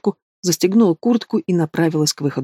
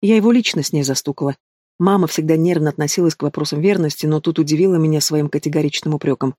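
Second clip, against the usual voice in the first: ordinary delivery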